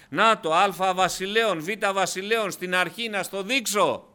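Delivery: high, forceful sermon delivery; insistent preaching. Real, not acted. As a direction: press the proof on the listener, point by point. Preaches, argues from scripture.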